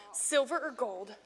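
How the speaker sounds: slow, measured phrase for echoing; repeat-after-me recital. Shown as a demonstration. Teacher feeding Peter's line to children, slow recital. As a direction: give it out slowly, word by word. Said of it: "Repeat after me".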